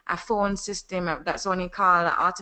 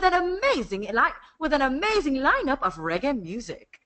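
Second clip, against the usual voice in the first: Jamaican presenter; 7 semitones higher than usual. Shown as a demonstration. Voice actor demoing a cruise ad, Jamaican announcer voice. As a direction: sell the reggae cruise in a Jamaican accent. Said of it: "like, a Jamaican presenter voice".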